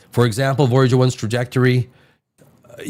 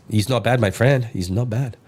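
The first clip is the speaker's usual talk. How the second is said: lightly put-on Mexican accent, lower pitch; a touch of mock Mexican accent; 4 semitones lower than usual. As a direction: slip into a mild Mexican accent. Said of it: "allowed to do a Mexican accent".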